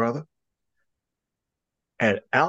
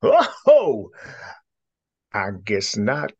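sudden cry; 4 dB louder, slower than usual. Acted. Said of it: "cried the bunny uncle suddenly".

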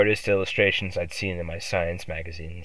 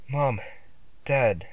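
high squeaked call that fails to carry; a frightened child's squeak; Mom, Dad, squeaked high; 5 semitones higher than usual. A narrator's reading. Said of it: "I squeaked".

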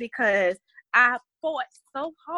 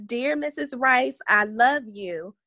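put-on reading a child's letter; 2 semitones higher than usual. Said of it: "Another one says".

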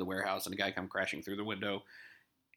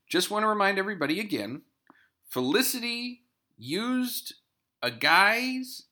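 quick breathy whisper to the audience; whispered aside; 9 semitones higher than usual. Real, not acted. Podcast host whispers a reminder to listeners, hushed. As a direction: lean in and whisper it fast.

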